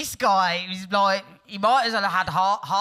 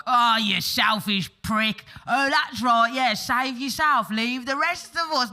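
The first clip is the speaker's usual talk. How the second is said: higher, louder, slow mocking jeer; sarcastic taunt; 7 semitones higher, 5 dB louder than usual. Friends laying it on Billy for saving himself, slow sarcastic taunt. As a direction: drag out the sarcasm to shame him.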